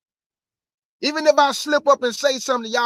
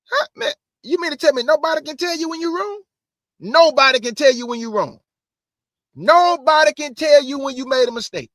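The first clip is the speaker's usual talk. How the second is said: incredulous; 5 semitones higher, 5 dB louder than usual. Real, not acted. Mocking teachers who can't be corrected.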